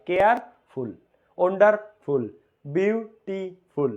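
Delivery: কেয়ারফুল, ওয়ান্ডারফুল, বিউটিফুল each broken before ful; separated sounds. Shown as a demonstration. Teacher demonstrating separate sounds, কেয়ারফুল, ওয়ান্ডারফুল, বিউটিফুল said piece by piece. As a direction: split each word into its sounds: কেয়ার-ফুল, ওয়ান্ডার-ফুল, বিউ-টি-ফুল. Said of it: "ধ্বনি উচ্চারণ দুইবার হয়".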